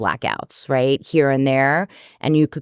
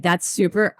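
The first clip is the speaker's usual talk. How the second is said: high playful quote; 5 semitones higher than usual. Retold or imitated. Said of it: "I was like".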